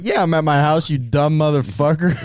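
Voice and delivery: imitated irritable answer. Friend imitating the sleepy one's phone insult, mock-irritable.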